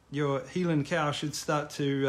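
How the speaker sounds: attempted Scottish accent on Heelan, slow; half-hearted Scottish try; mock Scottish accent. Shown as a demonstration. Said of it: "sorry, I can't do a Scottish accent".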